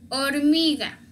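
hormiga starting straight on o, "ormiga"; silent H. Shown as a demonstration. Teacher models the mute letter, hormiga without H. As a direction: leave the h off hormiga. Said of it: "es la letra muda".

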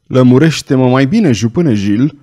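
plain reading voice

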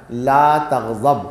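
"لا تغضب" spoken slowly, word by word; solemn, slow recitation of the Prophet's command; slow Arabic recitation. Acted. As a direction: lay down the command slowly and weightily. Arabic hadith quoted in sermon.

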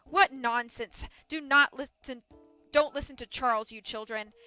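loud, slow-starting, emphatic dismissal; scornful boss. Acted. Mill boss warns children off Charles, scornful. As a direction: punch each word of the scolding.

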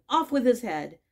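furious royal shout; queen shouting. A narrator's reading. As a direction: bark it like a raging queen. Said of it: "went stamping about and shouting".

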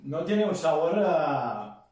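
eating crunchy puffs mid-sentence; talking while chewing. Real, not acted. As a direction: mouth partly full of snack. Seen 0: Puts a puff in his mouth at -2s, then talks while chewing.

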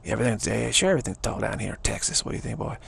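quick Texas boast; Texas accent. Shown as a demonstration. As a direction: talk big in a brisk Texan accent. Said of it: "Texas talking like Texas, like this".

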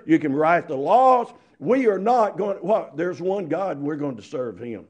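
loud, firm refusal to the king; defiant declaration; speak like men. Acted. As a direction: leave no misunderstanding. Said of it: "My daddy would say it like this".

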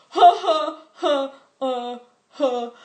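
loud, high forced laugh; mock awkward laugh. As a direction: fake an awkward chuckle. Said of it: "he's just like".

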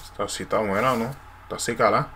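Puerto Rican accent. Shown as a demonstration. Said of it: "tap my partner and be like".

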